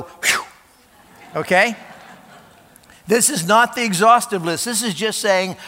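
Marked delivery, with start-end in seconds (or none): 0.0-0.4 mock relieved phew. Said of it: "don't go".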